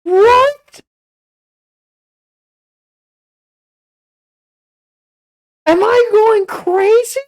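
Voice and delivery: can't believe what he just saw; stunned disbelief. Real, not acted. Reaction vlogger to viewers, stunned and disbelieving.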